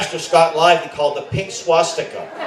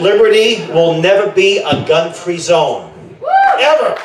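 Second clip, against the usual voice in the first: retold proud shout. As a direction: bellow it like a defiant police chief. Retold police chief proclaiming.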